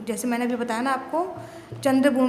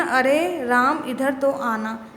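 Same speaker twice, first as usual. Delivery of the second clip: slow, stretched अरे at normal volume; drawn-out अरे, said to the class rather than called out; stretched vowels; slower than usual. Shown as a demonstration. Teacher repeats the example to show the long vowel, slow and stretched. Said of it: "स्वर लंबा निकल रहा है ना इसमें".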